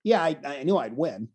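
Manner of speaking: low, soft, unbothered reply; calm and matter-of-fact. Retold or imitated. Imitating the calm wrestler answering the interviewer, low and soft. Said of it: "He was so calm and he goes".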